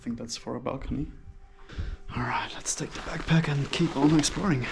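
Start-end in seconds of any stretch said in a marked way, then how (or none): 2.2-4.7 hushed whisper while exploring. Real, not acted. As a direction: whisper so no one hears. Exploring abandoned building, hushed.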